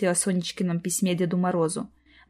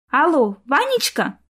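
put-on slow, higher girlish twittering; lovestruck ditzy voice; 6 semitones higher, 3 dB louder, slower than usual. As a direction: chirp like a silly girl in love. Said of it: "прощебетала она в трубку голосом влюблённой дурочки".

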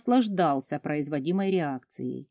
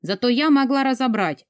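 usual speaking voice

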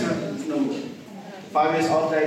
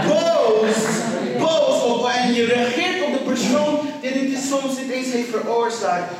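forceful preaching; 2 semitones higher than usual. Acted. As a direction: launch into it like a fired-up preacher.

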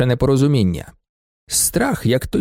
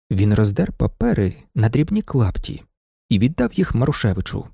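plain reading voice

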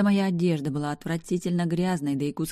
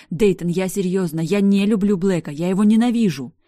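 heated insistence; 3 semitones higher, 9 dB louder than usual. Acted. Heated denial after outburst.

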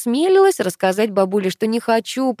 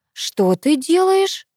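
slow, higher shocked question; astonished; 10 semitones higher, 4 dB louder, much slower than usual. A narrator's reading. Grandmother shocked her granddaughter is leaving, slow and astonished. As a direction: stretch the words out in disbelief. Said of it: "удивилась бабуля".

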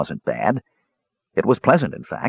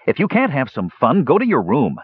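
firm, mildly cold reproof; stern and cold; 6 semitones higher than usual. A narrator's reading. Tannen to his shaming younger brother, stern. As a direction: scold him with restraint. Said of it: "Tannen's voice was stern and cold".

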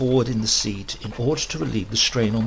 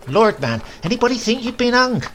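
much higher, fast, mocking; 12 semitones higher, 5 dB louder than usual. A narrator's reading. Grandmother mocking stiff grandfather, high fast tease. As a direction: tease him sharply about the stiff collar.

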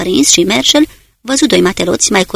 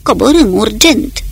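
urgent order; 2 semitones higher, 3 dB louder, slower than usual. Acted. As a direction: call the dive into the voice pipe. Ordin strigat în portavoce. (ordin urgent, tare, în portavoce)

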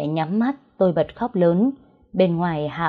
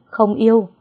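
higher, louder outburst on yêu; loud denial; 4 semitones higher, 6 dB louder than usual. A narrator's reading. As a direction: shout không yêu in protest. Daughter repeats denial.

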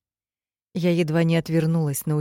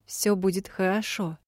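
higher, thin squeaky voice; thin squeak; 4 semitones higher than usual. Acted. Kuiji tries to comfort the dying boy, thin squeak. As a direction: squeak it out thinly. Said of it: "тоненько пропищал Куиджи".

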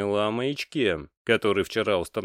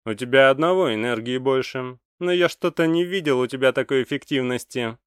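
put-on older mage's voice; 5 semitones higher, 4 dB louder than usual. A narrator's reading. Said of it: "сказал Сруазье".

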